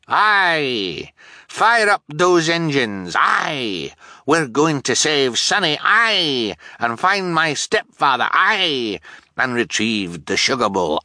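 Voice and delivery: high, loud rallying captain's voice; rally the crew with fervour; excited captain cry. Acted. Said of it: "Fiona cried".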